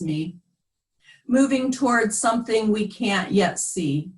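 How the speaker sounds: measured, deliberate poem recital; poetry reading. Acted. Poet reading to friends in Zoom world, measured poetry reading. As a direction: read it as verse, letting each line settle. Poet reads own poems aloud.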